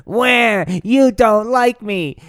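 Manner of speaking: high, loud, slow blubbering; mock crybaby whine. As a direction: whine it like a crying child. Slider whining crying.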